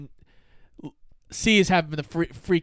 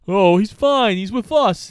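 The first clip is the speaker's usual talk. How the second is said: mock dismissive; 3 semitones higher, 5 dB louder than usual. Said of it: "Slick is like".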